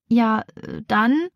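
hesitant, halting start; stammering. Acted. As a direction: fumble for words, unsure. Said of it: "stottert Rebecca".

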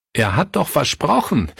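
rising, pleading protest with a stressed doch; he can't believe the broken promise; anguished cry. A narrator's reading. Pastor Fritz to the household, an anguished cry. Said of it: "rief Pastor Fritz".

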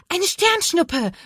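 high, drawn-out cry of delight; thrilled child's exclamation, slow and high; excited call. A narrator's reading. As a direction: call it out in wonder, pitch leaping up. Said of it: "ruft Lana aufgeregt".

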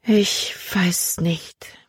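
whispered, very slow, barely there. Acted. Emma answers Jordan about his mother, slow whisper. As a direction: breathe the words out slowly as a whisper. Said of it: "Emma sprach langsam".

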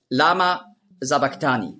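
"sabachthani" starting with a voiced s; "lama sabachthani" with an s at the start of the second word; common reading. Shown as a demonstration. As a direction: say "sabachthani" with s, not sh. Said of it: "lesen viele".

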